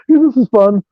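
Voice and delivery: giggly, high and tripping; giggling. Retold or imitated. Tripping on acid at a gang fight, giggling. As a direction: giggle through it like a happy tripper. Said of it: "I'm on acid just giggling".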